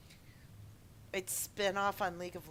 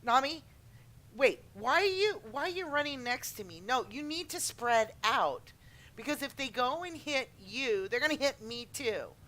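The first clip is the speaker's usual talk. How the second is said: higher, loud nagging teammate; bossy teammate; 5 semitones higher, 4 dB louder than usual. Retold or imitated. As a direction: nag a lagging teammate. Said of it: "people telling me".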